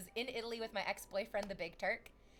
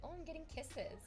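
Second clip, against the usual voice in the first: cooing at cat; 7 semitones higher, 5 dB quieter than usual. Real, not acted. Greeting her cat on stream, high cooing. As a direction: coo sweetly at the kitty.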